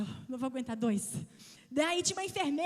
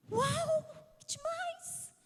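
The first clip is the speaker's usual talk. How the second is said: put-on high, thrilled child's voice; excited child; much slower than usual. Mother voicing her son amazed in hospital, high excited. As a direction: gasp with a boy's delight.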